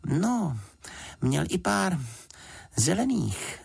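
put-on high, hesitant girl's voice; a young girl adding a detail; little girl. A narrator's reading. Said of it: "řekla Juditka".

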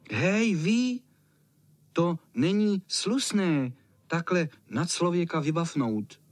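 put-on high, loud childish scolding; indignant little boy. A narrator's reading. Little boy scolding the cat for startling them, high and indignant. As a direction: tell the cat off like a cross small child. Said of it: "povídá ten malý".

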